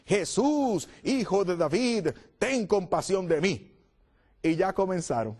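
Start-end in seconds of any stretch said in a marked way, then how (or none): 0.1-3.8 higher, pleading call to Jesus; crying out for mercy. Acted. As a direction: lift the voice and beg across the crowd. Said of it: "comenzó a gritar".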